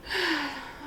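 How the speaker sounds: long, soft exhale; defeated sigh. Acted. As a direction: sigh as if the poem has beaten you. Poem attempt has failed.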